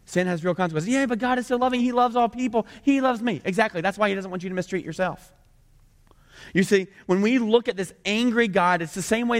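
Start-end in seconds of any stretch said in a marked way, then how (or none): 0.9-3.4 high-pitched mock protest; acted, insistent pushback; protesting objector. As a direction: plead the objection in a raised voice.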